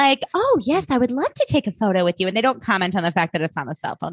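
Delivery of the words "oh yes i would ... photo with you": high, sweet princess gush; cartoon princess. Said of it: "That's my impression of a princess".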